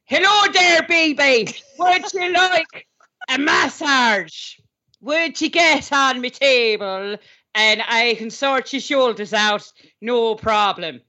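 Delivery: a light hammed-up Irish lilt, slow and crooning; mock Irish masseuse. Co-host auditioning for guest as Irish masseuse, hammed-up Irish accent. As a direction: offer a massage in a playful fake Irish accent. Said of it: "auditioning as a male Irish masseuse".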